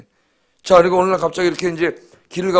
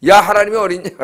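imitating a scoffer, louder and higher; mocking scoffer; 4 semitones higher, 5 dB louder than usual. Unbelievers scoffing at God before judgment, mocking. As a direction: jeer it as a loud challenge. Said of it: "그러면서 기독교를 조롱하고".

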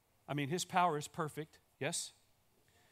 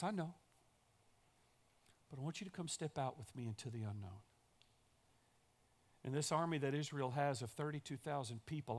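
softer, calm God voice; gentle reassurance; 3 semitones lower, 6 dB quieter than usual. Acted. God calmly reassuring a scared Gideon, soft and steady. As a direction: answer quietly and steadily.

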